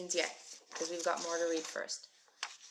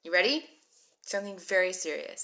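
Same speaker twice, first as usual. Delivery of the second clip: mock serious; 7 dB louder than usual. Teacher announcing serious activity.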